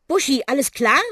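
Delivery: high, loud checking question; calling out. Acted. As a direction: call to the bus. Checking on the crashed bus. (besorgt rufende Frage)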